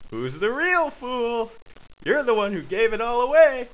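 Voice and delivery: high, emphatic comeback; heated retort. Acted. Yumbly argues about the given-away gold, heated.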